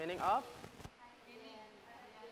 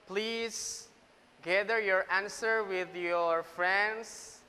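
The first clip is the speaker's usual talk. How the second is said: loud, slow instruction to the room; teacher calling out group work instructions; 4 semitones higher, 8 dB louder, much slower than usual. Real, not acted. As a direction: spell out the task for every group. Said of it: "instructing class loudly".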